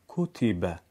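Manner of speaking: "کوتیبه" said kutibe with a short crisp u; correct short damma. Shown as a demonstration. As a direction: read "کوتیبه" with short u and i in one beat. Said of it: "ببینید".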